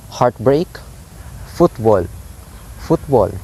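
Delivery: "heartbreak", "football" with weight on both syllables; "heartbreak, football" as isolated double beats; two stressed syllables. Shown as a demonstration. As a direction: give both halves of "football" equal stress. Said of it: "two high syllables".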